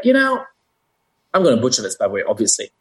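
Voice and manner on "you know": high, hammed-up voice of a working-class Jersey guy; Jersey comedian's guy. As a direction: pitch it way up as the comedian's everyman. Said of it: "He's like".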